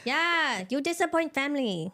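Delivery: put-on Asian mom accent. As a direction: scold like a disappointed Asian mom. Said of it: "That's what my mom always says".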